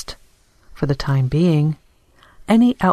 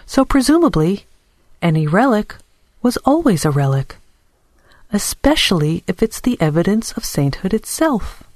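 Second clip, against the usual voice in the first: lightly voiced rebuttal, higher with swooping emphasis; arguing Dora; 3 semitones higher than usual. Dora argues back to the shopkeeper about saints and relics, pointedly. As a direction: turn their own logic back on them, pointedly.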